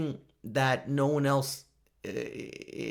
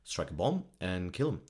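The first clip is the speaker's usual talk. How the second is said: slow, drawn-out, halting Obama voice; a hesitant bad Obama take; Obama impression; 5 semitones lower, 4 dB quieter, slower than usual. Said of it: "I can't do Obama".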